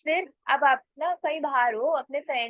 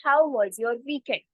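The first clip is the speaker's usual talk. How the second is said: very slow, clear English demo; slow model sentence; much slower than usual. Shown as a demonstration. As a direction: spell it out slowly for learners. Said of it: "तो आप क्या बोलोगे". (बहुत धीमे, साफ़ अंग्रेज़ी में)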